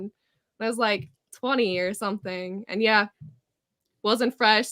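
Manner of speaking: ordinary talk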